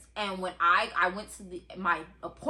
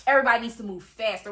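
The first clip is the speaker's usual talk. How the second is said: urgent; 7 dB louder, much faster than usual. Retold or imitated. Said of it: "he just was like".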